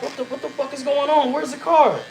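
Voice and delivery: very high-pitched mock disbelief; retold bewilderment. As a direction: act out a baffled, frantic search. Retold search for the missing card.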